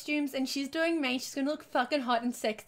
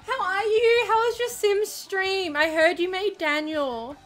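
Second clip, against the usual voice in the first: hiccupy, high and slow; with hiccups; 6 semitones higher, 4 dB louder than usual. Real, not acted. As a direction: push words through hiccups. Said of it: "and I'm hiccupy".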